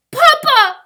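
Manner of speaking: high, full-voiced scream; desperate loud cry. A narrator's reading. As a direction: scream for your father in alarm. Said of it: "His mother cried".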